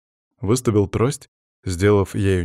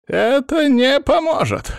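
very high, slow, loud wail; panicking; 5 dB louder, slower than usual. A narrator's reading. Cursed man warning the guards, panicking. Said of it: "продолжал паниковать мужчина".

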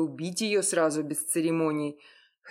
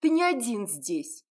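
much higher, louder, a woman snapping back; furious outburst; 10 semitones higher, 4 dB louder than usual. Acted. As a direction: lose her temper at him. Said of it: "психанула Яра". (сорвалась на крик)

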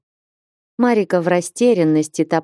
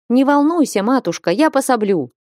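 mild, higher-pitched hearty call; a touch of a booming shout, read with restraint; thundering call; 6 semitones higher than usual. A narrator's reading. Northern woman calls help to nervous old witch, mildly thundering. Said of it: "громовым голосом крикнула северянка".

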